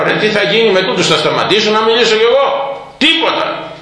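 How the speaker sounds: high, exasperated youth; frustrated boy. Retold or imitated. The boy fumes that the crowd won't let him speak, high and exasperated. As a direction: sigh it out like an impatient kid. Boy's frustrated inner voice retold.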